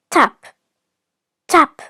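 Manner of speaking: each tap stronger, with a beat between; building taps. A narrator's reading. Narrator sounding out the hatching egg, building taps.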